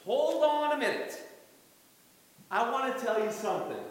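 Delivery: a hint of Paul holding up his church; voicing Paul. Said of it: "he says".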